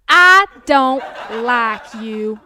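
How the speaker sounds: loud rude snap; blunt customer. Acted. Annoyed customer rejecting the server, loud and blunt. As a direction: flatly insult the server.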